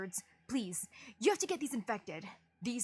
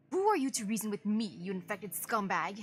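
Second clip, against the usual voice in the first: contemptuous sneer. Acted. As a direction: spit the insults at her. Villager sneers at an infected.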